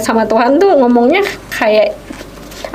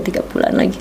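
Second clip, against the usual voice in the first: hushed; 3 semitones lower, 6 dB quieter, faster than usual. Retold or imitated. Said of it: "Iya juga ya".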